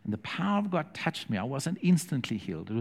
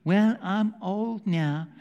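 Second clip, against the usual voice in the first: mock old excuse; 6 semitones higher, 3 dB louder, much slower than usual. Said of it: "Don't use the excuse".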